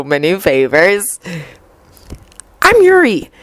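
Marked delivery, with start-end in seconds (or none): 2.6-3.3 shy. Acted. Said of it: "he answered shyly".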